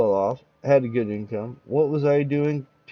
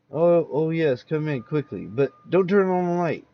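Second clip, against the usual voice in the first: shaky, anxious host; 4 semitones higher than usual. Acted. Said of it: "sounded shaky, tearful".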